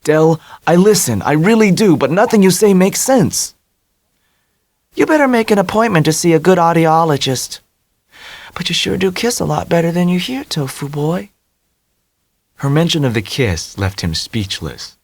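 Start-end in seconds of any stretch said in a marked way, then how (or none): 0.0-3.5 higher, louder, fed-up plea; Tommy exasperated by Dell's riddles. A narrator's reading. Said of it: "Tommy said exasperatedly". 4.9-11.3 high, playful taunt; teasing Dell. A narrator's reading.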